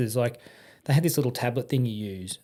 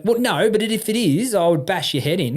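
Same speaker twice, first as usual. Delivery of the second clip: high, louder mock threat, laughing through it; mimicked threat, half laughing; 6 semitones higher, 5 dB louder than usual. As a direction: play the mechanic's bluster while cracking up. Mechanic backpedalling threat.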